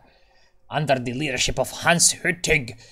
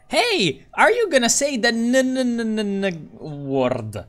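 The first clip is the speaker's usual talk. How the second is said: loud, high-pitched mock pestering, stuttering on the n; mock eager heckler; 10 semitones higher, 4 dB louder than usual. Streamer mimics viewers pestering as soon as someone joins, high mock-excited. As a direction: imitate a pest, high and loud, sliding down at the end. Imitates viewers baiting him.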